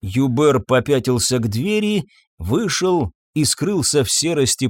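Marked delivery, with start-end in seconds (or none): none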